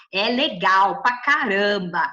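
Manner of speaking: excited. Real, not acted. Excited about God's gift.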